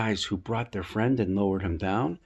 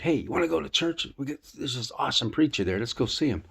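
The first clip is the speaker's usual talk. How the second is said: brighter, higher eager invite; friend's invitation; 3 semitones higher, faster than usual. Retold or imitated. Friend urging the man in the wheelchair, eager. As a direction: pitch it up like a buddy talking you into it.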